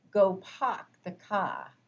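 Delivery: slow, broad New England "Go park the car" with no final R; New England accent. Shown as a demonstration. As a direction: stretch it out like a Kennedy. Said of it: "They do funny things with that final consonant".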